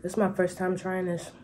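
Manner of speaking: eating while talking; chewing through the words; mouth full. Real, not acted. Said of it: "I'm talking with my mouth full".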